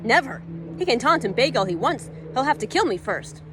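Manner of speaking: a defiant refusal; firm defiance. Acted. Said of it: "Elise said firmly".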